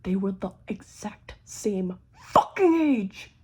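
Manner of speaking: hushed whisper for the shocking reveal; secret whisper. Acted. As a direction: breathe it like a secret.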